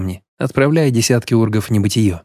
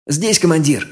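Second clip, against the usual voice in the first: raised eager answer; excited reply; 6 semitones higher than usual. A narrator's reading. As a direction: answer eagerly, ready to ride. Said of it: "возбуждённо откликнулся Алрик". (возбуждённый отклик Алрика)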